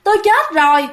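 high, eerie ghost reply; gleeful ghost. Retold or imitated. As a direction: tease the aunt like a laughing ghost. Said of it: "bà này cười ha hả lên, nói".

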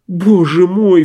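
high, loud distressed cry. A narrator's reading. Lariosik hearing the telegram, loud dismayed cry. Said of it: "вскричал багровый Лариосик".

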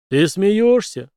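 loud, slow indignant outburst; outraged at the suggestion; the giant protests loudly. Acted. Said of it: "возмущённо вскинул руки гигант".

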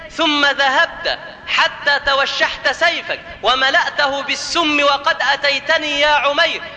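slow, measured declamation of the Prophet's words; solemn oratory. Acted. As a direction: recite it as a deliberate, ringing confrontation. (إلقاء خطابي مهيب ومتمهل)

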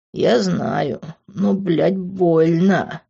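whimpering man. A narrator's reading. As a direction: whine it, hurt. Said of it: "проскулил он".

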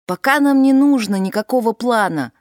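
loud call over the wind; shouting back. A narrator's reading. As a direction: shout back across the gusts. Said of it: "прокричала в ответ Дилейни".

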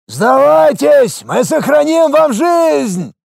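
high, slow booming call from the wall; booming shout. A narrator's reading. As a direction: thunder it down, slowly. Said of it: "Прогремел голос с осколка стены".

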